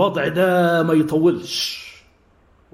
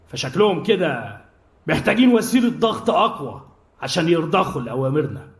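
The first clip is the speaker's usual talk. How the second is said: calm. Acted. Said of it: "قال في هدوء".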